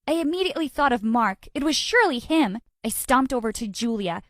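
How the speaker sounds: ordinary delivery, nothing marked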